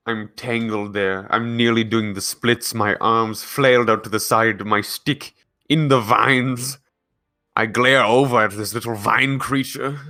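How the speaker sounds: hushed nature documentary narration; narrator voice. Acted. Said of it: "You're in your narrator voice".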